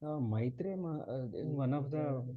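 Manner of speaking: very faint, hard to hear; speaking too softly, far from mic; barely audible. Real, not acted. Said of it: "Your voice is very low".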